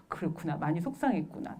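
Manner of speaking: soft, low-key soothing; acted parent's hushed acknowledgement; gentle empathy. Parent listening to upset child, softly empathizing.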